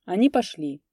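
plain reading voice

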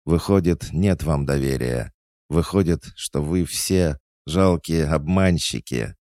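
high, impassioned accusation; indignant scolding. A narrator's reading. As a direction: berate your pupils, hurt and outraged. Tearful coach scolds her pupils.

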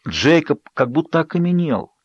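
usual speaking voice

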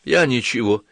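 panting, calling out; breathless shout. Acted. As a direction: gasp it out between breaths. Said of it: "задыхаясь, крикнула Ванда".

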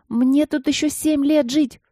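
high, slow shout. A narrator's reading. Алина кричит из-за двери, что ей тут жить, высоко. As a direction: plead loudly through the door. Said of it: "крикнула Алина".

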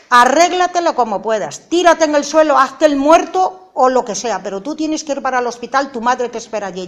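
loud, high urgent yell; retold shouting. Mother yelling at son to get to the hospital. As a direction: yell the orders, desperate. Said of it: "Entonces yo le grito también a él".

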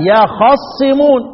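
خصمون recited with a full fatha on the kha, long drawn-out endings; full vowel. Shown as a demonstration. Teacher showing students the full vowel, slow full-vowel recitation. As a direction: slowly give خصمون its complete vowel on the خ. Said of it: "الحركة كاملة".

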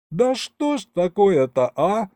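high, loud, slow exasperated wail. A narrator's reading. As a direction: cry it out in dismay. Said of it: "завопил я".

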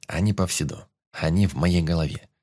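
plain reading voice

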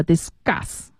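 discuss pronounced "dis-GUSS"; voiced C after S. Shown as a demonstration. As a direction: soften the k in discuss to g. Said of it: "清辅音后面的重读都要浊化". (discuss 中 s 后的 c 浊化成 g)

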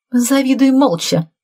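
high, snippy retort; snapping back. A narrator's reading. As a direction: bite back at her sharply. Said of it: "огрызнулась Ольга". (резко огрызаясь)

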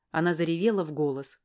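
ordinary talk

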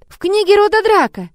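put-on high, excited child voice; loud, girlish revelation; confiding girl. A narrator's reading. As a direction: share it like a child's thrilling secret. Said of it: "тихо поделилась девочка".

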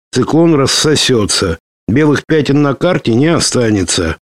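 lightly voiced woman on the radio; a hint of a lively female officer reporting; woman's voice. Anna's long radio report.

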